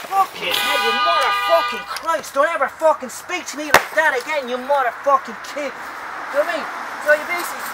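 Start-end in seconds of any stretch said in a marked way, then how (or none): 0.1-5.7 louder, cursing the canvas like an enemy; mock tirade at a painting. Artist telling off his painting in a loud mock rage. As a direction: swear at the painting in a put-on rage. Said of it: "It's by speaking to my paintings".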